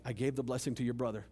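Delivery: father telling Esau the blessing is gone, offhand; old father. Retold or imitated. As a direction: rattle it off like a weary dad. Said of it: "And Dad's like".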